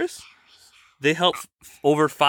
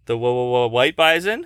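playful stammer echo; 3 semitones lower than usual. Retold or imitated. Parent echoes child's stammered words.

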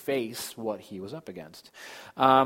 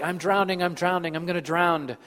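higher, louder mock-panicked cry; retold child's yelling; 7 semitones higher, 5 dB louder than usual. Preacher voicing his son at swimming lessons, mock yelling. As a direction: imitate a small child yelling in the pool. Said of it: "he would be yelling things like".

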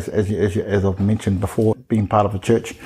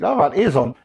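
teacher voice; 5 semitones higher than usual. Retold or imitated. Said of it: "that sort of teacher voice".

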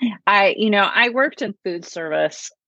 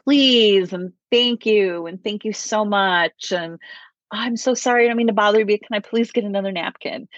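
lightly imitating a sweet, polite customer; extra polite customer; 3 semitones higher than usual. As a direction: pile on the pleases and thank-yous, mildly mocking. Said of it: "so nice, like".

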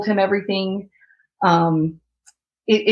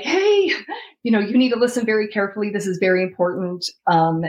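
retelling a desperate call through tears; crying on the phone. Retold or imitated. Wife begging a friend for help, tearful.

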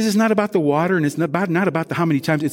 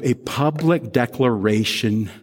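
slow stress on "public"; 4 semitones lower, slower than usual. Real, not acted. Pastor reminding the congregation what baptism is, stressing "public". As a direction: set "public" out slowly and firmly. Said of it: "Let me underline public".

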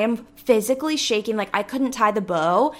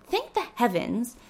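relieved sigh; 5 dB quieter than usual. Retold or imitated. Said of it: "And I was like".

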